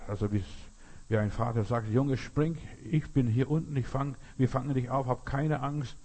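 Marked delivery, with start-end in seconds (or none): 1.9-6.0 higher-pitched retold call to a son; lightly acted father urging his boy. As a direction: call up reassuringly, without full shouting. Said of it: "der Vater ruft ihn hoch".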